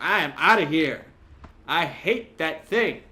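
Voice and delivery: loud, rattled and fleeing; panicked. Real, not acted. Player running from the monster, panicked. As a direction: blurt it out in a panic.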